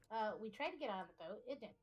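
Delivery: choppy, breaking-up audio; mic cutting out. Real, not acted. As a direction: signal dropping out. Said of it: "Still no good?".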